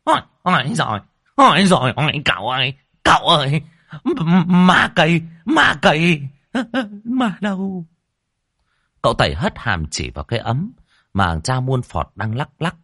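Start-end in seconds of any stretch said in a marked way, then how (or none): 0.0-7.9 high, loud frightened yelps breaking into a laugh; panicked yelling. A narrator's reading. Old Đồng waking up and crying out about the tree ghost, high and loud. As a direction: stammer out in fright. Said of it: "thì gào lên".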